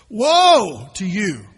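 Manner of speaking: slow, loud and drawn out, pronouncing doom; thundering prophetic woe; booming slow woe. Acted. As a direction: let each word land like a judgment. Preacher pronouncing woe from scripture.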